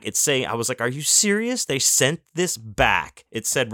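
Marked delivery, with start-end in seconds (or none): 0.8-3.2 retold disbelief. Disbelief at returned package.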